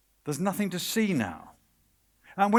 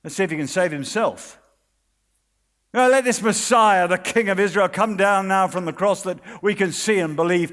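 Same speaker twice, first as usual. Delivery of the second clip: taunting, building to a loud jeer on Messiah; mocking voice; 5 dB louder than usual. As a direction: sneer it, then shout the challenge. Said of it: "And then the next voice".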